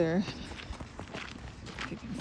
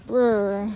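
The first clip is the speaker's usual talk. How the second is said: lips buzzing from the cold; shivering brr; 2 semitones lower than usual. Real, not acted. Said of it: "I'm so cold".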